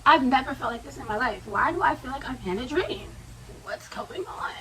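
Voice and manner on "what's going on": whisper. Retold or imitated. Retold panicked thought in class.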